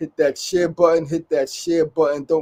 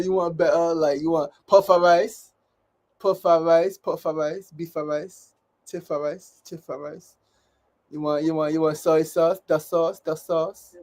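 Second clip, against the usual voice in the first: mock Asian accent. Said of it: "'cause they'll say".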